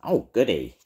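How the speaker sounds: put-on gleeful cackling old witch. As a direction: cackle with wicked delight. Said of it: "cackled Edna".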